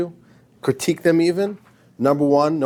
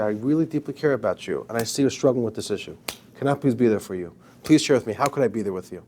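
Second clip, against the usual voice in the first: gentle caring plea; 4 semitones lower than usual. Retold or imitated. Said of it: "if you do it in a gentle way".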